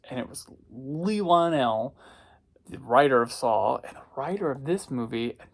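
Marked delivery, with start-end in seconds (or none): none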